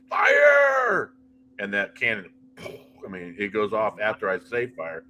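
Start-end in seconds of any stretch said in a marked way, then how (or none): 0.1-1.1 high, loud drawn-out battlefield shout; long, full-voiced holler; yelled command. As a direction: yell it across a field like an order to shoot. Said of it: "I actually yelled in the field".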